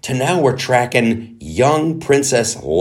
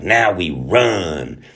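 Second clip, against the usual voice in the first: put-on calm determined girl; 2 semitones lower, much slower than usual. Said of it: "a young black girl is like".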